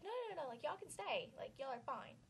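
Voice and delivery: imitating the hostess as she frantically takes it back; overeager hostess. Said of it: "She's like".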